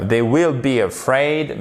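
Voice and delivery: "they will be afraid" with every sound fully made; over-articulate "they will be afraid"; exaggerated articulation. Shown as a demonstration. Teacher showing sounds that may seem too much, careful articulation. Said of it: "un peu too much".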